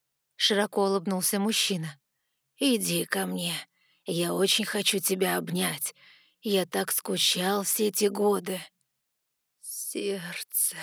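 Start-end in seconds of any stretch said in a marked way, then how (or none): 2.6-8.6 the father calling his daughter lovingly to him; отец, ласковый зов. Acted. Father figure speaks. 9.6-10.8 a breathless whisper of one word. A narrator's reading. Heartbreak in narration.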